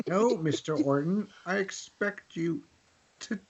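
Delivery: Bond villain. Pretend. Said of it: "Bond villain quote".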